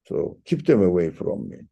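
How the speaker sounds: normal talking voice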